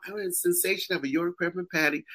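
white lady voice. Retold or imitated. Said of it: "the little white lady come out".

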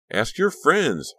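slow, high, loud protest; defensive. Acted. Honey tells Becca to ask the girls, defensive and loud. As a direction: push back hard, stung. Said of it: "Honey said defensively".

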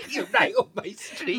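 high-pitched celebrity accent impression; a singer. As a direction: parody the accent up high, laughing. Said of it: "That's gone a bit like a singer".

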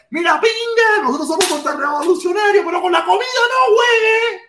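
hammed-up furious protest; mock outraged shout. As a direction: bellow it like a fed-up father. Imitated angry Cuban parent.

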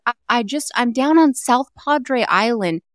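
high, slow, happy-go-lucky; cheery husband voice. Retold or imitated. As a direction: sound carefree and cheerful.

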